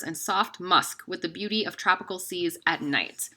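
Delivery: airy near-whisper reading; breathy, whispered read of the description. Real, not acted. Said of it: "if I sound really breathy".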